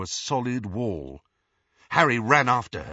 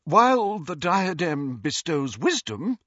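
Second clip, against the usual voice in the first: raised voice, held formal; composing herself; 7 semitones higher, 4 dB louder than usual. A narrator's reading. Ghost pulls herself together before Harry, formal. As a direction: gather yourself and lecture. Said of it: "obvious effort to pull herself together".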